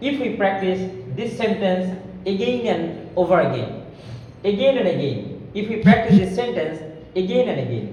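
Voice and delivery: very slow, careful drill sentence; slow practice drill. Shown as a demonstration. Teacher drilling students, slow and deliberate. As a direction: draw each word out slowly for learners. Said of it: "সুন্দর করে আমরা উচ্চারণ করতে পারবো".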